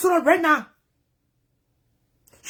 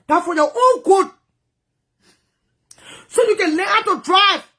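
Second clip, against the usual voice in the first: scolding partner; 4 semitones higher than usual. Retold or imitated. Partner scolds her for picking up the phone, raised and tearful. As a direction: lecture her in anger, near tears. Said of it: "He said, Shalom".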